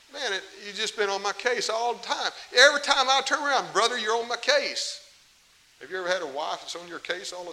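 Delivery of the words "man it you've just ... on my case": higher, louder fed-up protest peaking mid-line; fed-up complaint. Retold or imitated. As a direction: vent at the nagging brother. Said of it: "I can just see David saying that".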